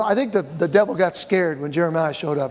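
normal talking voice

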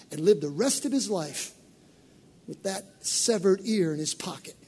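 normal talking voice

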